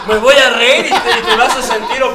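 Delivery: laughing. Real, not acted. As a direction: speak while cracking up. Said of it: "Me haces cosquillas".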